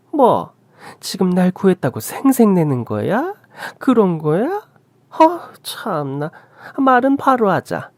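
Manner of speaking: high-pitched accusing retorts; haughty high-voiced indignation; scornful mother-in-law, indignant. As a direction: challenge them with incredulous, rising questions. Mother-in-law confronts daughter-in-law.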